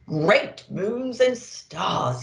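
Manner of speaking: slow, sighing exclamation; weary sigh. Acted. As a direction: let it out on a tired breath. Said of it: "he sighed".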